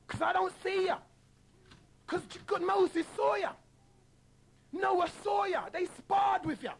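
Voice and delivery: high, shouting preacher's plea with pitch rising on every line; hammed-up revival preacher crying out to Jesus; mock preacher. Imitating a preacher pleading with Jesus to listeners, mock preacher. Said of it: "I'm just doing what they do".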